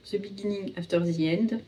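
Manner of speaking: title said with a hammed-up English accent; The Beginning After the End in an exaggerated English accent; mock English accent. Shown as a demonstration. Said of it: "avec le magnifique accent anglais". (titre anglais avec un accent anglais exagéré)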